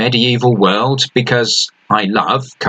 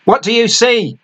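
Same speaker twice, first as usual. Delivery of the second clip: shouted up; 12 semitones higher than usual. A narrator's reading. Captain shouting up to the crow's nest, urgent. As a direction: bark it up to the lookout. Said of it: "he shouted up".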